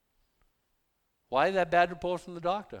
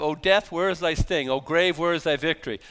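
loud scripture reading; 2 semitones higher, 6 dB louder than usual. Acted. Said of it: "First Corinthians fifteen, verse fifty-five".

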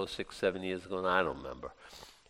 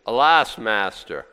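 crying out; 6 dB louder, slower than usual. Retold or imitated. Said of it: "he cries to the master".

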